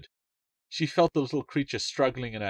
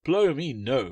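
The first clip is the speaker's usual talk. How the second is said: cried out; 4 semitones higher, 5 dB louder, slower than usual. A narrator's reading. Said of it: "Wally cried".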